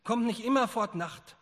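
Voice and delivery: loud, high, building rhetorical questions; impassioned preaching. Acted. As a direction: preach it with mounting alarm. Madman's speech preached at full force. (leidenschaftlich und laut gepredigt)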